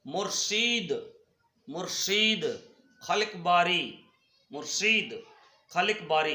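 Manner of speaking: "मुर्शीद", "खलिक बारी" spaced out, long ee drawn out; each of "मुर्शीद", "खलिक बारी" said separately, with a pause after; careful pronunciation. Shown as a demonstration. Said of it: "हमने इनका उच्चारण कर लिया".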